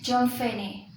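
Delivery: "John Finney" said with a fall then a rise, followed by a pause; one intonation phrase, falling then rising. Shown as a demonstration. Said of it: "fall rise plus fall rise".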